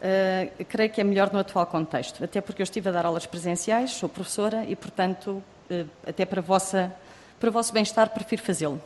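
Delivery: muffled behind a face mask; through a face mask. Real, not acted. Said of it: "prefiro não o fazer".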